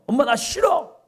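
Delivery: put-on high yelling child's protest; child's shout. Child shouting at mom, high and loud. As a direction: shout it like a sulky kid.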